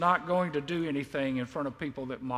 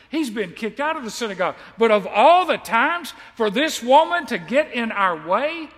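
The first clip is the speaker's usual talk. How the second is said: frustrated father; 3 semitones higher, 4 dB louder than usual. Retold or imitated. Imagined frantic father's complaint.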